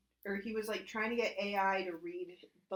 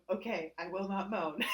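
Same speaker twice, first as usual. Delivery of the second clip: deadpan AI voice. Retold or imitated. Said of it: "And I would go".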